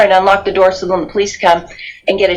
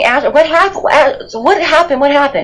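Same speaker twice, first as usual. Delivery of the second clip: frantic, hysterical screaming, pitched higher; 7 semitones higher than usual. Recounting screaming at a woman who would not answer, retelling hysterical screaming. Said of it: "I'm screaming".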